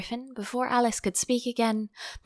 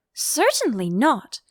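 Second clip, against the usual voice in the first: indignant; 5 semitones higher, 4 dB louder than usual. Acted. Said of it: "said Alice indignantly".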